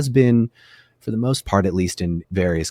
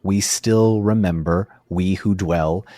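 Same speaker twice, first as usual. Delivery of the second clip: slow, measured verse reading; poem recitation; slower than usual. A narrator's reading. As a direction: recite the hymn line by line, unhurried. Recites the elves' song lyrics.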